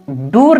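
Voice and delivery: "दूर" with a long oo for door; wrong long oo. Shown as a demonstration. Teacher showing a wrong reading of door, long "दूर". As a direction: stretch the oo in "दूर". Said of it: "दूर नहीं पढ़ते हैं".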